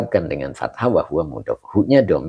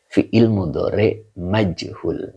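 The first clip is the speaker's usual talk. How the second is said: slow, clear repeat; slower than usual. Shown as a demonstration. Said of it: "Ini dibaca yuqalu".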